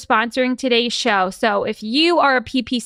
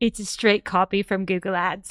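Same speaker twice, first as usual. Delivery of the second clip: put-on British accent, quieter; 5 semitones lower, 5 dB quieter than usual. Speaker chats with a colleague about managing a Bing ads account, put-on British accent. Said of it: "I don't think that my British accent is good".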